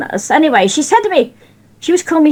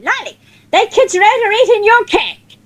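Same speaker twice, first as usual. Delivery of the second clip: alarmed; 9 semitones higher than usual. Retold or imitated. Gladys alarmed reporting children.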